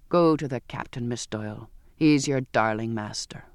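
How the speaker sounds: lightly voiced surly seaman, dropping low; scornful sailor. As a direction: send her off with contempt.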